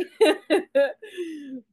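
loud, high helpless laugh. Real, not acted. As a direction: laugh till it squeaks. Keeps laughing.

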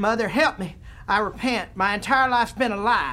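frightened plea. Acted. Senator begs the ghost for mercy, high and frightened.

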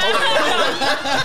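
squawky high parrot imitation. Telling friends about aunt's parrot, high squawky parrot voice. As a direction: mimic the bird in a shrill high voice.

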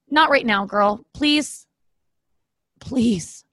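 urgent plea fading to a whisper; hushing the dog. Real, not acted. Owner pleading with her barking dog to stop, fading to a whisper.

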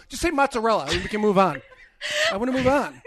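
exasperated. Retold or imitated. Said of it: "I go".

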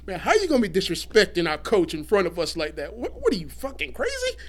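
mock outrage rising in pitch; hammed-up indignant confrontation; retold indignation. Wrestlers confront disrespectful athlete.

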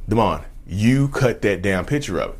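slow, deliberate imitated accusation; mildly heated, drawn-out accusing quote; animated accusation. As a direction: spell out the charge word by word, imitating her. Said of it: "she was getting animated".

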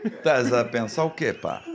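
slow, challenging imitation of a Portugal accent; mock Portuguese accent. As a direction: confront someone in a put-on European Portuguese accent. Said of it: "Ele faz igualzinho?".

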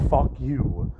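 "fuck you" said evenly, like a courtesy; polite fuck you. Retold or imitated. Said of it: "it was like a polite".

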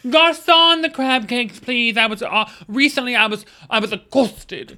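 mock Kate Middleton. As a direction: play it grand, like royalty ordering crab cakes. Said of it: "like you're Kate Middleton".

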